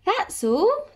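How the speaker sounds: high, incredulous questioning lift; exasperated sigh. A narrator's reading. Tilly hears it was only vanilla, sighing in disbelief. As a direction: sigh it out in disbelief, pitch jumping up. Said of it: "Tilly sighed".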